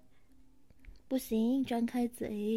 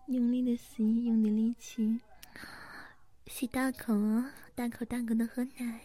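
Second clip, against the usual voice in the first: ASMR whisper. Acted. ASMR big-sister roleplay whisper. (轻柔耳语)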